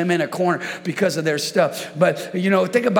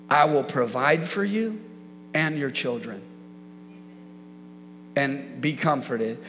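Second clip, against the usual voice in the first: soft, lowered, unhurried voice; kindly, comforting; 2 semitones lower, 4 dB quieter, slower than usual. Acted. Joseph reassuring those who wronged him, softly comforting. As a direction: let it settle gently, with pauses. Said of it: "comforted them and spoke kindly".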